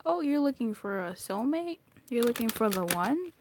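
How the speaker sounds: lightly voiced God, playfully questioning; teasing God. God teasing reader about soulmate, lightly acted questioning. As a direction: lift each question in light mock interest. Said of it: "He's like".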